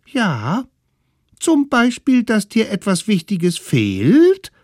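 put-on very high, loud teasing children; high kids' voice. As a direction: needle him like cheeky little kids. Kids answer.

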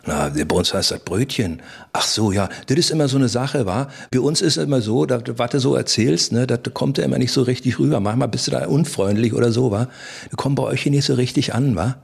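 a light Berliner voice with wa and Schrippen; Berlin dialect. Retold or imitated. Berlin guest chatting with the innkeeper in mild Berliner dialect.

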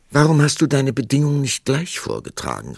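loud, high exasperated king; roaring tyrant king. Acted. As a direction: call it out like an impatient ruler. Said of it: "rief der König".

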